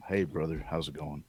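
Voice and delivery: soft, low-key impression; Sam Elliott. Hippie sitcom character greets someone, soft impression. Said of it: "And so Sam, he's like".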